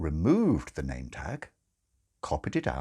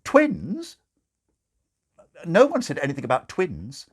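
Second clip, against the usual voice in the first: much higher, louder, shocked; alarmed father; 8 semitones higher, 5 dB louder than usual. Acted. Father protests to the nurse, shocked and loud. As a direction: panic rising at the surprise.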